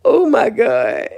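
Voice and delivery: high, slow, breathless laughing fits between words; crying with laughter, gasping out oh my God; helpless laughter. Real, not acted. Laughing at the rival's accusation to her viewers, helpless laughter.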